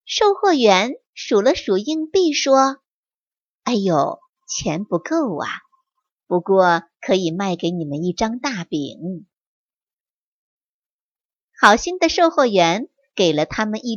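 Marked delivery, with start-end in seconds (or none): 3.6-9.3 a touch lower, kindly shop clerk; lightly voiced shopkeeper. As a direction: let the shopkeeper apologize gently. (略低沉的售货员声音)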